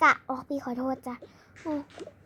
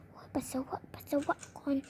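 slow, softer, whimpering whisper; 9 dB quieter, much slower than usual. Acted. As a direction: whimper it, desperate to go. Desperate to pee. (กระซิบครวญช้าๆ)

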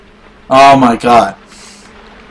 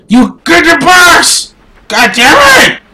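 higher, slow shouted order; real yell; 6 semitones higher than usual. Real, not acted. Player ordering his game character, slow frustrated shout.

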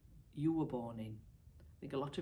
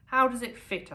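polite tailor question; 10 semitones higher, 9 dB louder than usual. Acted. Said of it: "asked the young tailor".

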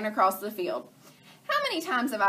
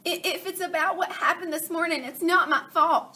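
Chicken Little; 7 semitones higher, 4 dB louder than usual. Acted. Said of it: "Chicken Little said".

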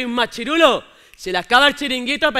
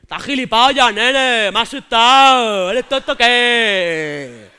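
loud, furious shout after a fright; startled angry yell; 2 semitones higher, 10 dB louder, much slower than usual. Acted. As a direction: bark at the prankster. Scared lad yelling at friend. (chaval asustado gritando furioso a su amigo)

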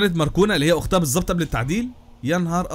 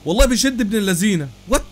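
normal talking voice

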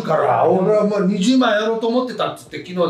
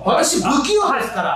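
高倉健の物まね; 5 semitones higher than usual. Retold or imitated. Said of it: "高倉健さん。". (寡黙な高倉健の口調で「不器用」を強めに)

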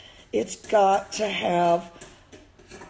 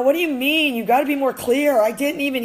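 mock confused listener; 6 semitones higher, 4 dB louder than usual. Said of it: "or like somebody that mumbles".

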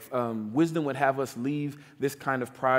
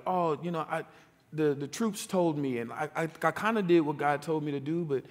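higher, flustered stammering excuses; excuse-making Saul; 4 semitones higher than usual. Retold or imitated. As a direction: squirm like a caught king. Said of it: "he's like".

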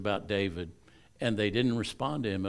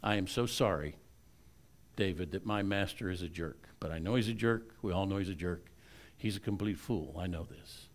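humble apology; 3 semitones lower, 7 dB quieter than usual. Retold or imitated. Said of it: "She gets up and she says".

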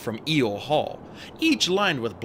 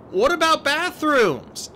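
anxious question; 5 dB louder, slower than usual. A narrator's reading. Percy asks Hecate.

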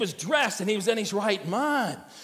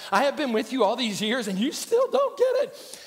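exasperated Jesus; 4 semitones higher than usual. Acted. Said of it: "when Jesus would say to his disciples".

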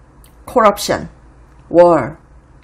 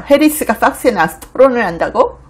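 imitated disbelief, higher rising question; Pelosi; 4 semitones higher, 3 dB louder than usual. Host voicing Pelosi on Harris debating at Fox, incredulous. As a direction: question it as if it were absurd. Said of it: "자기가 생각할 때도 어이없는 거죠".

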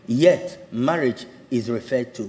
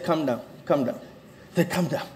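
soft, retold calming words; 6 dB quieter than usual. Pastor to shouting couple, softly calming. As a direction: settle a row with a hushed voice.

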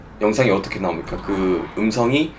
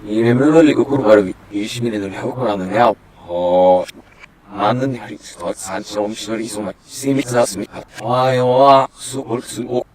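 backwards speech. Shown as a demonstration. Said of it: "이걸 한번 돌려볼 거고요".

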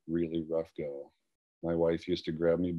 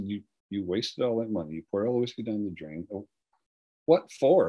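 higher-pitched retold upset, peaking on the last words; 4 semitones higher than usual. Wife scolding husband over poured-out whiskey, retold as upset. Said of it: "She got pretty upset with me".

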